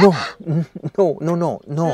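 loud, high protests; overwhelmed cries. Acted. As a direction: cry out helplessly.

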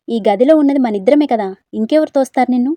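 loud incredulous scolding; loud scoffing challenge; loud disbelief. Acted. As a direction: shout it, not buying it. Disbelieving argument.

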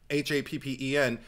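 ordinary talk

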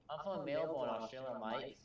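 hammed-up Aussie accent; mock Australian accent. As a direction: boast you're from Melbourne in a jokey Australian accent. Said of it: "I can speak Australian now".

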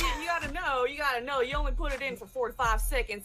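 Southern redneck voice. Acted. Southern redneck explaining to the host. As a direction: explain it like a proud hick. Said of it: "that's pretty good".

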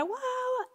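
high, soft, drawn-out mock bawl; imitated crying wail. Telling how she burst into tears, imitated wail. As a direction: imitate a wail on one held high note. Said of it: "Y empecé a llorar".

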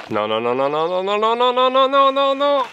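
building to a high shout; escalating panicked refusal; rising no. Real, not acted.

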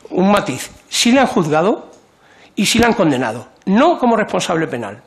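loud, insistent correction. Real, not acted. Deputy cutting in on the minister, loud and insistent. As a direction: talks over the minister, pressing each point hard. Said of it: "Por mucho que grite más".

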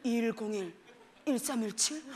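put-on low, soft boyfriend voice; boyfriend on phone. Boyfriend calling his girlfriend, low soft recital. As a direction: imitate him reciting numbers, low and soft. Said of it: "어제는 갑자기 막 전화 와서는".

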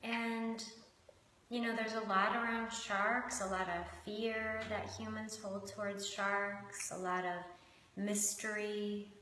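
measured meditation guiding with long pauses; guided meditation. Acted. Host guiding listeners into connection with shark and hummingbird, unhurried meditation voice. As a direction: lead them gently inward, leaving space between phrases.

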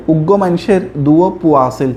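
Chittagonian example sentence; demonstrating Chittagong regional speech; Chittagong dialect. Shown as a demonstration. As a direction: say it as Chittagong locals do. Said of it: "চট্টগ্রামের মানুষরা বলে".

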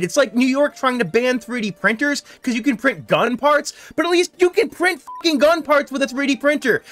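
wild unhinged ranting. Real, not acted. Ranting at government ban.

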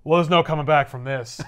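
resigned line through laughter; laughing resignation. Retold or imitated. Peter resigns himself while laughing. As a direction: give up, chuckling. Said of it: "He's like".

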